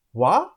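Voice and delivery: "Water" split in two, with a pause in the middle; broken into syllables. Shown as a demonstration. Teacher showing students the syllable break, "Water" split in two. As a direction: break "Water" after the first syllable, holding it up. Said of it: "We are giving a break".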